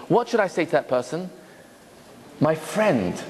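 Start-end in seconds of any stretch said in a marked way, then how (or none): 2.4-3.2 soft, gentle opening to a friend; my friend said gently and lower. Shown as a demonstration. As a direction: say it softly, kindly. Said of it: "in a gentle voice, voice, soft voice".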